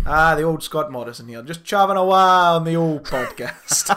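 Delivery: put-on leisurely, playful Scottish accent. Host joining in the podcast introduction, put-on Scottish accent. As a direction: banter along in broad mock Scottish. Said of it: "in the most Scottish accent".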